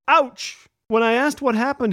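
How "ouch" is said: mild mock yelp, higher pitched; high, half-hearted yell of pain; retold yell. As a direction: cry out lightly like a small child. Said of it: "my four-year-old was upstairs and yelled".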